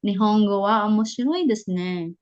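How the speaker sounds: "omoshiroi" lifted, "desu ne" falling; not flat, give "omoshiroi" life and drop "ne"; with feeling. Shown as a demonstration. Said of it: "huwag maging flat". (may damdamin, hindi flat)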